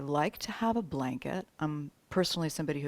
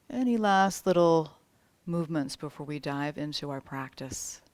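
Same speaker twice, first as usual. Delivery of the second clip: unhurried yoga teacher settling the class; spaced phrases with long, restful pauses; guided meditation. Real, not acted. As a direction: guide them gently toward rest.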